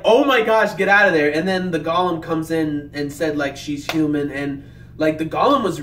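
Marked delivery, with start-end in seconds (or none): 0.0-1.3 yelling at the screen for Theodora to flee; urgent warning. Retold or imitated. Shouting a warning at the screen. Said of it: "I was like".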